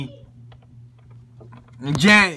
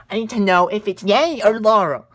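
higher, louder and fast, overblown panic; mock desperate; 7 semitones higher, 6 dB louder, faster than usual. Ranter begs the experts for the answer, hammed-up frantic. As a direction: rush it out in fake desperation.

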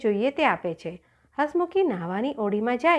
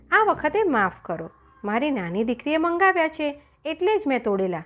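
higher-pitched, apologetic plea; pleading; 4 semitones higher than usual. Acted. Merchant begs the lion's forgiveness, pleading. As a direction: beg to be let off.

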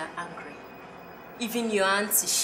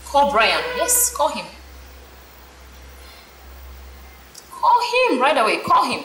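loud, higher, insistent orders; angry demand; 4 semitones higher, 6 dB louder than usual. Acted. Friend loudly ordering her to call Brian now. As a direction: hammer the command home, getting louder.

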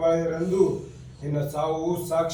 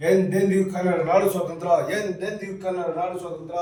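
proud slogan. Acted. Patriotic vow repeated as slogan.

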